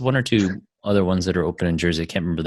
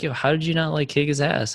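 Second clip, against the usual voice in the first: mock onlookers' incredulity in a raised pitch; imitated freak-out; 9 semitones higher than usual. Bystanders questioning the worker after the confrontation, imitated freak-out. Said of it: "people were freaking out".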